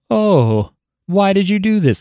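short-lived villain. Retold or imitated. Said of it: "a very short-lived villain, being like".

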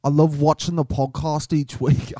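put-on unsure Scottish accent drifting toward Irish; wobbly Scottish accent. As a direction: have a rough go at Scottish. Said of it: "I don't know what accent that was".

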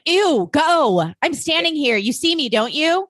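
put-on high, disdainful mean-girl voice; snooty mean girl. Blair-style mean girl shooing a classmate, high and snooty. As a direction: look down your nose and brush them off. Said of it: "She was like".

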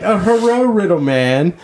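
high mock Chinese accent, l as r; mocking accent on hello. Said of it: "We're like".

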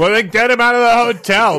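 loud, fast character bark; gruff NPC voice. Acted. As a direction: play a pushy alien thug.

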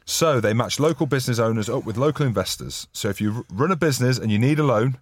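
clumsy podcast sponsor read; bad ad read. Real, not acted. Host reading the new sponsor's copy aloud, bad ad read. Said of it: "That was the worst reading I've ever heard".

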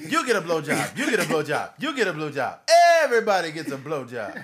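loud, laughing talk-show giveaway; giveaway shout. Retold or imitated. Parodying Oprah handing out prizes, loud and gleeful. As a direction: belt it to the studio audience.

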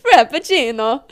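loud, playful Italian-style frappuccino; hammed-up Italian accent on frappuccino; mock Italian accent. Shown as a demonstration. Laughing at her own slip, mock Italian accent. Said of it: "Why did I say that in an Italian accent".

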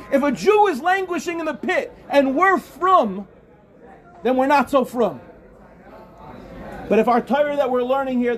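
preaching at full force. Acted. Rabbi urging campers to help, fervent preaching. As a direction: drive the point home with passion.

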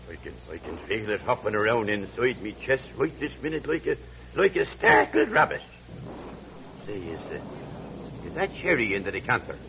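a sick man's hushed confession. Acted. Old man confides his weak heart.

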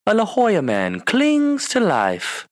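slow, high dramatic anchorman read; newscaster quote. Retold or imitated. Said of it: "what movie is that from".

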